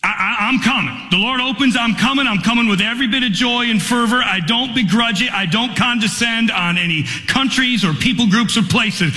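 usual speaking voice

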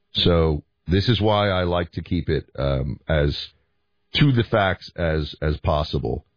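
scratchy, worn-out throat; hoarse voice. Real, not acted. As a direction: talk through a sore, hoarse throat. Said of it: "voice seems to be, like, an octave deeper".

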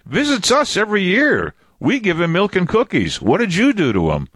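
very high, surprised little alien. Acted. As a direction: squeak it out like a puzzled alien. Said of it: "And then the alien goes".

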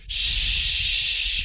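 breathy whisper of a minced curse; whispered shoot. Shown as a demonstration. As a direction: whisper it like a sheepish near-swear. Sample mild curse word.

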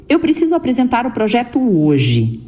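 "hoje" descends steadily to the end; falling statement tune. Shown as a demonstration. Speech coach demonstrating the descending finish on "hoje".

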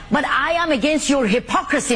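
a heated shout at the mayor; shouting her protest against the mayor's hypocrisy. Real, not acted. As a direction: raise the voice to accuse him. Activist confronting the mayor on air.

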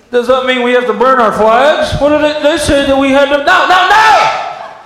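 high, fast, shouting panic; panicky patriot. Acted. Mocking confused citizens panicking over the flag ruling, shouting. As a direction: rant like a confused flag nut.

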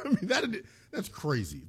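words through laughter; laughing. Real, not acted. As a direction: laugh while saying it. Host laughing at the reveal.

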